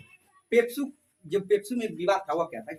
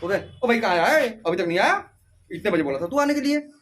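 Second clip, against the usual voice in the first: mock-bossy Haryanvi calling, louder; rough Haryanvi; 4 dB louder than usual. Teacher imitating a Haryanvi friend who seems to scold, mock-bossy Haryanvi. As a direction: sound like you're ordering him, Haryanvi style. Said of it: "ऐसे बोले जैसे तुमसे पूछ रहा, तुमको order दे रहा".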